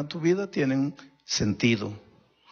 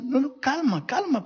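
calming voice; 13 semitones higher than usual. Acted. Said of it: "¿Por qué tanta prisa?".

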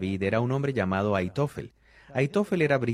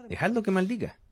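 "Dejadlo" lifted much higher, falling at the end; "Dejadlo que maldiga" echoed in a raised voice; repeated high; 10 semitones higher, faster than usual. Shown as a demonstration. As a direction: say the king's words again up high. Preacher repeats David's line.

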